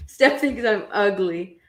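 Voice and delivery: slow, low imitated sulk; mock self-pity. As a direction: drag it out softly, mimicking a moper. Mimics a complaint heard every day.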